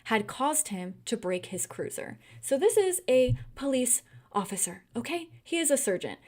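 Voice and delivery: normal talking voice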